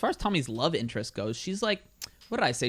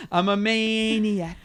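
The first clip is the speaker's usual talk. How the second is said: quoted maniac line; 7 semitones higher than usual. Retold or imitated. Quoting a movie line, laughing.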